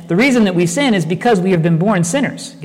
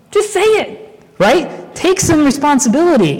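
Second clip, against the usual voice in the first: fervent urging; 9 semitones higher than usual. Acted. Preacher pressing the point home.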